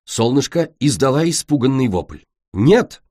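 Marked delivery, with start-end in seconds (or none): 2.5-3.0 exclaiming. Acted. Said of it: "воскликнула Цунами".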